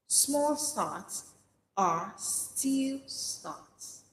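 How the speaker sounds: small lifted, rest drawn out slowly; slow repeated mantra. Shown as a demonstration. Preacher giving listeners a line to repeat, slow. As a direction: savour each word of the motto. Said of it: "Say it to yourself".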